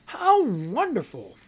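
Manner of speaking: slow, dry sarcasm; sarcastic. Real, not acted. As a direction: drag it out with mock delight. Sarcastic reaction to news.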